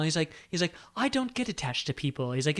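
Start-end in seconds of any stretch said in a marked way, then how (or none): 1.0-2.3 purring Meredith. Retold or imitated. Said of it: "he always talks like this".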